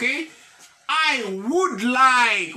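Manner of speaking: very slow, every word stretched; slow model reading. Shown as a demonstration. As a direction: spell it out in sound for the class. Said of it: "teacher models English slowly".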